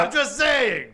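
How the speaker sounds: slow words through laughter; laughing. Real, not acted. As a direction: say it while laughing. Laughing while speaking.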